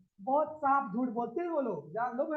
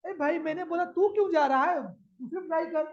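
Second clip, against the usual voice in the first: higher-pitched acted appeal to a friend; acted remonstrance; 4 semitones higher, 4 dB louder than usual. Teacher playing a friend talking someone out of leaving, remonstrating. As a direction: talk them out of it, voice raised in pitch. Acts out pleading with a despairing student.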